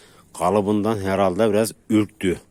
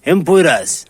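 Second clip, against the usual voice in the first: excited praise; 6 dB louder than usual. Real, not acted. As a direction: cheer the dogs on, delighted. Cheering both dogs on.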